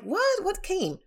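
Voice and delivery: sudden high-pitched surprised question; surprised what. Retold or imitated. To her husband about a package, high surprised what. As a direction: squeak it out, caught off guard.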